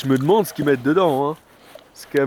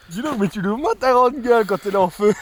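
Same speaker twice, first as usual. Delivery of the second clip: teasing; 9 semitones higher, 5 dB louder than usual. Real, not acted. Teasing friend with burning mouth.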